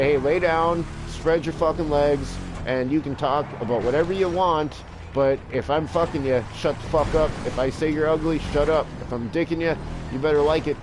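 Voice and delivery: a domineering lover's commands, half joking; bossy commands. Retold or imitated. Acted bossy bedroom orders.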